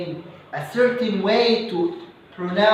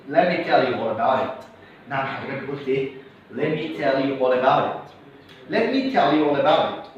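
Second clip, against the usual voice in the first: fast speech demo; 4 semitones lower than usual. Shown as a demonstration. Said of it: "Train your mind to receive quick information".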